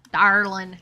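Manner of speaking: the model "Darling" to copy; proper darling. Shown as a demonstration. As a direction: land "Darling" with weight. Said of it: "You have to say".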